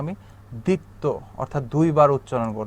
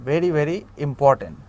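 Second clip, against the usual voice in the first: very very important drawn out slowly; slow emphasis; much slower than usual. Shown as a demonstration. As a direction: stress each word, slow. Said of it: "teacher stressing importance".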